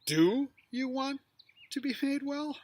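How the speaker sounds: "you" high and slowed; stress on you. Shown as a demonstration. Teacher voicing Jesus stressing "you" as accusation. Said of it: "if Jesus says".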